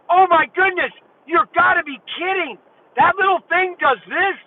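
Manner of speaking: high, wide-eyed disbelief; retold amazement. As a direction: gasp it out as if you can't believe it. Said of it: "I almost lost it".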